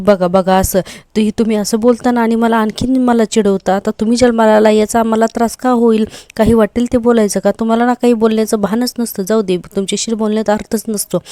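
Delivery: a wife snapping back in a half-acted outburst; angry scolding. Wife fighting with husband over his remark, loud angry scolding.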